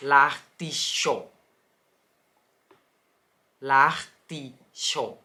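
drawn-out l'artichaut with a light R; slow French demo. Shown as a demonstration. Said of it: "สังเกตจะออกเสียงแอร์เบาๆ". (ออกเสียง l'artichaut ช้าๆ แอร์เบาๆ)

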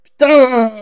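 furious shouts, pitch climbing; angry yelling. Real, not acted. Gamer yelling at an enemy that keeps hitting him, furious. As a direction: rage at the enemy, full voice.

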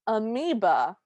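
"amoeba" set apart by pauses and stressed; emphatic AMOEBA. Real, not acted. Recapper insisting on what encases her, stressing "amoeba". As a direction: lean hard on the word "amoeba". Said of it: "I cannot emphasize this enough".

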